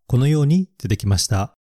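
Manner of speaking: ordinary talk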